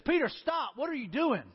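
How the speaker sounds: mildly acted alarmed reproach; urgent rebuke. Jesus halts Peter's sword attack.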